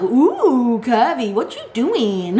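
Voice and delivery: slow, amused self-scolding; laughing at self. Real, not acted. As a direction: laugh at your own rant. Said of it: "I'm going into a rant now".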